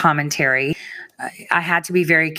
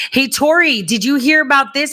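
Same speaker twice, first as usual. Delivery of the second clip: higher, brighter quoted fan; eager viewer; 10 semitones higher, 3 dB louder than usual. Retold or imitated. Fan asking Tori about the news, higher and eager. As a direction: play a fan bursting with gossip. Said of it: "a lot of you are gonna be like".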